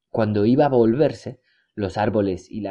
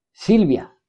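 calling out loud; 9 semitones higher, 4 dB louder than usual. A narrator's reading. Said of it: "dijo en voz alta".

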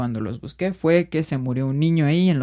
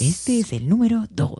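Dross voice; 7 semitones higher than usual. Retold or imitated. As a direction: hush it out eerily like Dross. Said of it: "Es que habla raro".

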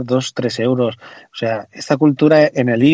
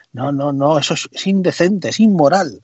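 sarcastic mock indignation; 2 semitones higher than usual. Mocking Android users outraged at paying, sarcastic. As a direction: fake being scandalised.

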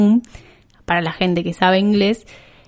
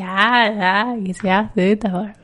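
slow, stretched-out jeering "ah"; mocking heckler; much slower than usual. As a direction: imitate someone teasing a show-off. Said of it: "te va a decir". (burla arrastrada, imitando al que jode)

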